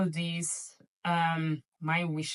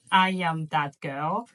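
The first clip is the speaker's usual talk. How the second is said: slow, emphatic and a bit louder, savouring each word; proud declaration; 2 semitones lower, 6 dB louder, slower than usual. Real, not acted. Vlogger swooning over Hermès après-ski gear, slow emphatic proud declaration.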